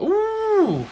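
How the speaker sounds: high delighted ooh; surprised ooh. Real, not acted. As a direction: react with sudden delight at the can. Spots the beer can.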